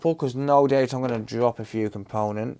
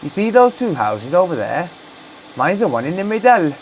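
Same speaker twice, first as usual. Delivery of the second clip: put-on higher, louder broad Black Country accent; 5 semitones higher, 7 dB louder than usual. Streamer continuing the local bit, in a Black Country accent. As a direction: play a proud local pointing out a house. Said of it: "stop doing accents".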